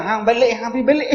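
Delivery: shooing quote. Retold or imitated. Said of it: "Kak, saya kata".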